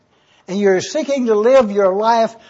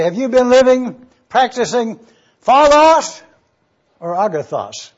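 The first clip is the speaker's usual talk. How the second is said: mock preachy question; 3 semitones higher than usual. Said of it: "Don't go out and say".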